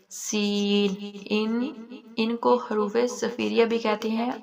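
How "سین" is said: سین with a thin, whistling s; whistled seen. Shown as a demonstration. Teacher demonstrating the whistling letter سین. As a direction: let سین whistle like a bird. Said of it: "سیٹی کی آواز آنی چاہیے".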